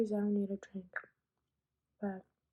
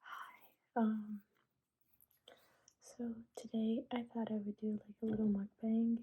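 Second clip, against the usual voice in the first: whispering. Real, not acted. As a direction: whisper it close to the mic.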